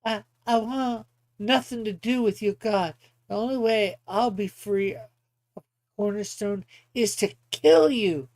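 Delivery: acted defiance with a punched ending; defiant opponent. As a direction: reject the hero, building to the threat. Opponent answers Flame in character.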